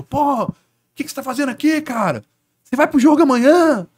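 high, teasing mock fan voice pushed way up; pestering fan. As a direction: play the nosy fan needling the player.

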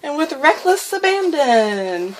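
high, drawn-out words through exertion; strained with effort. Real, not acted. Vlogger scribbling wildly until the page rips, straining. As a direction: stretch it out while pushing really hard. Repeats instruction while scribbling hard.

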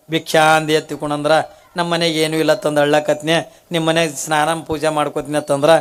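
a hint of a simple woman telling her sister; lightly voiced humble woman. Kalavve explaining to her neighbour, low and confiding.

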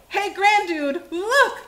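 high, loud storybook shout; alarmed high call, rising at the end; yelled. A narrator's reading. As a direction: yell to get someone's attention. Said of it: "yelled Lucy".

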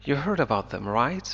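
"right?" rising at the end, turning the statement into a question; flat statement, then lift "right?" upward; question tag rise. Shown as a demonstration. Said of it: "ثم تضع right في النهاية لتحولها لسؤال".

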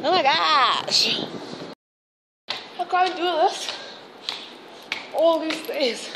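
slow and winded after climbing the stairs; out of breath. Real, not acted. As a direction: gasp the words out, worn out by the steps. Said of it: "I'm already out of breath".

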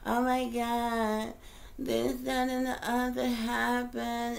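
slow, lightly whiny imitation of a complainer; mocking people who complain about the past, slow mock whine; mock whining. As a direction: drag it out like a half-hearted moan. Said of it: "whining and crying and bitching and moaning".

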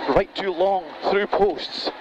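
urgent co-driver calling notes; rapid rally pace notes. Real, not acted. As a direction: call the notes fast at speed.

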